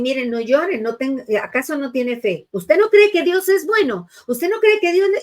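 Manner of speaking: building from stern to a high, loud rebuke; high, reproachful lecture that keeps climbing; scolding preacher. Retold or imitated. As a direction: scold the mourner for crying, rising in pitch. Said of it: "y hasta lo regañan a uno".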